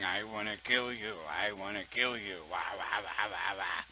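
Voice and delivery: low, croaky gremlin growl; frog-voiced gremlin. Mocking a gremlin singer on stage, low croaky growl. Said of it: "some gremlin ... with a frog voice going".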